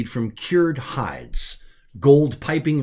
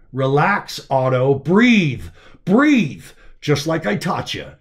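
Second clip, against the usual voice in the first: louder, firm breathing coach; coaching calm; 3 semitones higher, 5 dB louder, slower than usual. Acted. Zeb coaching Otto to breathe through the pain, firm. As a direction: talk him down from panic.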